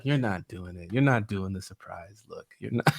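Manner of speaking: disappointed. Retold or imitated. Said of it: "he looked so disappointed".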